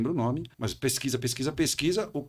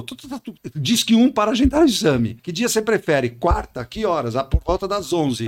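robot voice; 3 semitones higher, 6 dB louder than usual. Retold or imitated. Robô de agendamento do Fleury.

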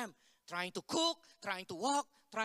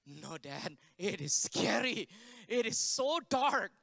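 mock-frightened kid, slow and drawn out; retold protest, leaning hard on SCARY and DARK; scared son; 5 dB louder, slower than usual. Connor balks at entering the solitary cell, mock scared. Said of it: "Connor's like".

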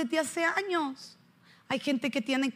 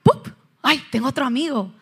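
like magic; 5 dB louder than usual. Retold or imitated. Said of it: "Como mágico".

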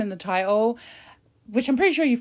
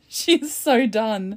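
drawn-out laughing She's so done, leaning on so; slow giggly She's so done; laughing, stretched so; 3 dB louder, much slower than usual. Real, not acted. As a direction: savor it slowly while laughing. Slower, laughing.

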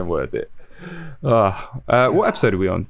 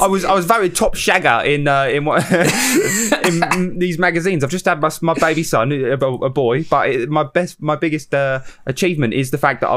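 Russell Brand impression; 4 semitones higher than usual. Imitating Russell Brand boasting.

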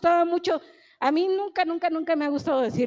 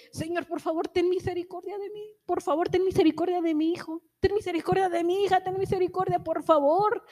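higher, urgent begging to God; pleading prayer; 4 semitones higher than usual. Acted. Acting out a parent in the pit, begging God for mercy. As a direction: beg the Lord for mercy.

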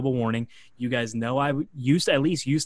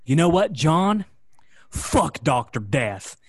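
defiant outburst; 4 semitones higher, 8 dB louder, slower than usual. Retold or imitated. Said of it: "he goes".

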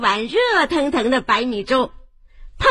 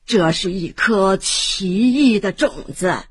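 put-on old woman asks the family for water; old granny; 2 semitones lower than usual. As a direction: speak like a gentle grandmother. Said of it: "是老婆婆".

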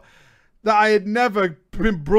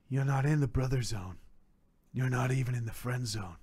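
low, quiet reread; 10 semitones lower, 8 dB quieter than usual. Retold or imitated. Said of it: "She said".

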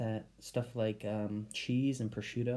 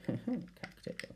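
whispered; 8 semitones higher, 4 dB quieter than usual. Real, not acted. Savoring word of her drink.

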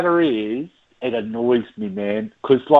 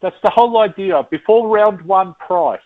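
emphatic plea; 4 semitones higher than usual. Real, not acted. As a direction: insist on it, exasperated. Ranting about default sort.

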